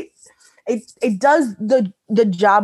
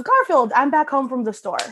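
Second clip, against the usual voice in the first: lightly acted call to Garfield, name pitched high; a hint of a cheery homecoming call; cartoon owner greeting; 4 semitones higher than usual. Reading the comic's owner to the podcast, lightly acted greeting.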